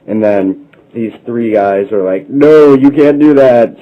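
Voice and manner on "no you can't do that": loud, slow heroic refusal; heroic shout. Acted. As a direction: shout them down, dragging the words. Three heroes refuse villain.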